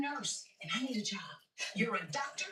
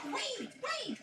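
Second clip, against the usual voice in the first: calling out; 13 semitones higher than usual. Acted. Calling after him.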